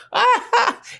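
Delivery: mocking laugh. God laughs at the kings who plot, high mocking laugh. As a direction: laugh at the plotters from heaven. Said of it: "make fun of them".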